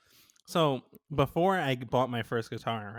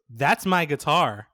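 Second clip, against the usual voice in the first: slow, louder claim of ownership; firm retold accusation; 6 dB louder, slower than usual. Teller imitates the dude claiming the guitar, firm and accusing. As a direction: spell it out slowly, imitating an accuser.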